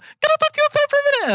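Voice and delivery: very high, fast mock white lady voice; white woman voice. Repeating the teacher's request to the audience, very high and fast. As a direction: squeak it up to an unhearable pitch. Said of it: "that unaudible frequency".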